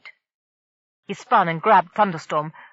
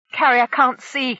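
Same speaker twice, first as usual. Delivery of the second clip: higher, louder, slow urgent cry; cried out; 5 semitones higher, 5 dB louder than usual. A narrator's reading. Kef mid-fight warning the others, a slow urgent cry. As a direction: call out the warning in a struggle. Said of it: "Kef cried".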